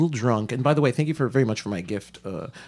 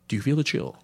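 urgent dramatic warning; 4 semitones higher, 3 dB louder, faster than usual. Acted.

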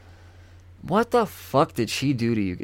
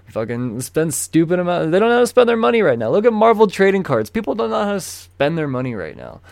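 loud rant; 8 semitones higher, 5 dB louder than usual. Real, not acted. Ranting about speculators.

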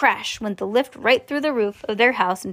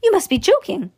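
high, louder incredulous exclamation; astonished disbelief; 10 semitones higher, 5 dB louder than usual. Acted. Grandpa Joe answers Mister Wonka's offer, astonished. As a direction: refuse to believe it, pitch leaping up. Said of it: "gasped Grandpa Joe".

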